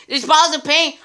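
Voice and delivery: amazed. Acted. Phil repeats it, more amazed.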